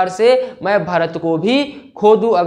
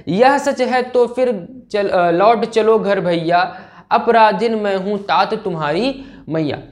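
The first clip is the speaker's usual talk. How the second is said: verse recitation. Acted.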